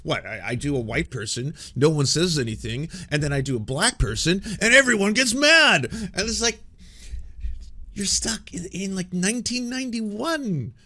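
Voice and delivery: lampoon him working himself up on stage; mock Jim Breuer. Streamer mocking a right-wing comic's stage rant, building to mock shouts. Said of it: "he's like".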